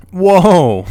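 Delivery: loud, high startled whoa; surprised whoa. Real, not acted. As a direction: yelp of surprise. Sudden startled exclamation.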